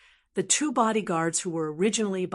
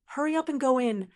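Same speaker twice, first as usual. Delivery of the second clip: anxious roar; 5 semitones higher than usual. Acted. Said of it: "he roared at Hawkeye in a very anxious tone".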